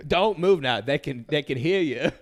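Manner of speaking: mock nature-host caution; Steve Irwin. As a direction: play Steve Irwin near a beast. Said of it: "like he's Steve Irwin".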